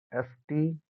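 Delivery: एस्टिग्मेशन in two parts, long gap between; syllable-by-syllable dictation; broken into syllables. Shown as a demonstration. Breaks the new term into parts.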